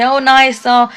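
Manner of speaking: mock the staff being sweet to parents; imitating smiley niceness. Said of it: "all nice and smiley".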